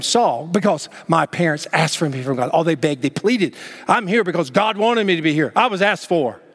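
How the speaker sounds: self-important acted boast, pitch climbing; a little arrogant. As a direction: act out someone proud of his own name. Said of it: "Kind of a little arrogance".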